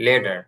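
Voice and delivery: লেডার with the t said between Bengali ঠ and ড. Shown as a demonstration. A teacher models লেডার, t softened toward ড. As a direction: say লেডার, the tt flapped almost to a d. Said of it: "এরকম উচ্চারণ হবে".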